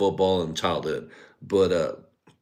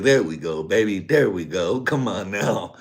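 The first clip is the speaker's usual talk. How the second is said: excited cheer; 5 dB louder than usual. Retold or imitated. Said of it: "I was like".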